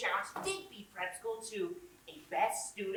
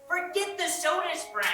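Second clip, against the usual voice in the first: higher, louder, fed up with interruptions; frustrated raised voice; exasperated outburst; 6 semitones higher, 5 dB louder than usual. Acted. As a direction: burst out in exasperation. Interrupted repeatedly, bursts out.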